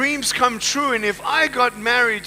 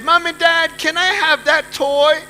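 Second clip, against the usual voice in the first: put-on high, louder pleading kid voice; higher-pitched childlike request; imitating himself as child; 6 semitones higher, 4 dB louder than usual. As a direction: play a little kid asking for a toy. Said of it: "and I said".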